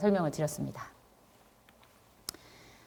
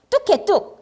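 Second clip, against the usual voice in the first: stern hush; 12 semitones higher, 3 dB louder, slower than usual. Retold or imitated. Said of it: "이러면".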